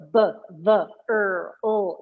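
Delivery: isolated sounds, B, V, ER, O, one by one; drill sounds. Shown as a demonstration. Teacher mimicking pronunciation drills, isolated sounds. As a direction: recite "b, v, er, o" as separate drill sounds. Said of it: "the notion of these drills".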